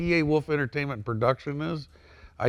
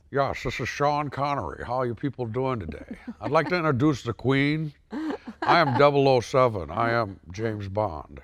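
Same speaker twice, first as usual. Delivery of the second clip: lightly voiced James Bond; a hint of Scottish Bond; Sean Connery impression. Shown as a demonstration. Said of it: "can you do a Sean Connery for us".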